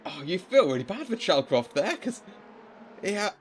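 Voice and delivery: dismayed surprise. Real, not acted. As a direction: react as the driver loses places. Dismay at a lost position.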